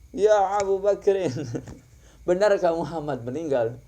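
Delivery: Umar in disbelief. Retold or imitated. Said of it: "Pas Umar bin Khattab lihat jasadnya langsung".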